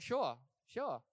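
breezy, careless "sure, sure"; offhand agreement. Retold or imitated. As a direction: toss it off without a thought. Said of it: "just being dumb".

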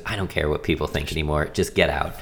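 quiet, worn-out giving up; totally resigned. Retold or imitated. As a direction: let it go, drained of fight. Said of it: "totally resigned".

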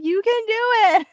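high, called-out cheer, mimicked; imitated encouragement. Friend coaxing her toward the dock, mimicked encouragement. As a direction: cheer them on in a high voice, as a retelling. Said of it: "and they're like".

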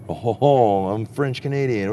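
a light mock French Canadian voice; a hint of a jolly French Canadian, barely put on; imitating Carl. Telling his buddy how the neighbor bounced back up, lightly mocking his French Canadian voice. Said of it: "he gets up and he's like".

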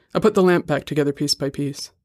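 ordinary delivery, nothing marked

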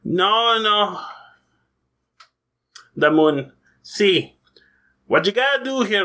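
hammed-up Scottish counselor voice; Dave the Duck Scottish accent. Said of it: "I bring out my horrible Scottish accent".

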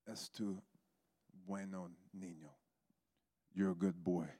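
soft, low, gentle blessing; tender reassurance. Retold or imitated. Pastor hugging someone in prayer, soft and tender. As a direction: say it quietly, as if during a hug.

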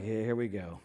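low, mumbled reluctant bride; half-hearted bride. Retold or imitated. Bride dreading the aisle, mock reluctant and low. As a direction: sigh it out like a bored bride. Bride voiced unenthusiastic at wedding.

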